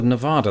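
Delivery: "Nevada" with the short "a" of "cat"; locals' pronunciation. Shown as a demonstration. Vowing to the people of Nevada, "Nevada" said Ne-VAD-a. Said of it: "I will pronounce it Nevada".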